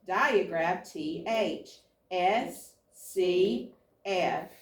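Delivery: brisk call of each pattern name, then its letters; flashcard drill. Acted. Teacher running spelling cards with the students, brisk drill call. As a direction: rattle through the cards for the class.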